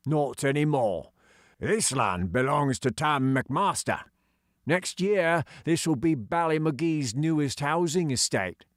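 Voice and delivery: gruff, dismissive workman; sneering digger driver. Acted. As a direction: sneer the order off the kids.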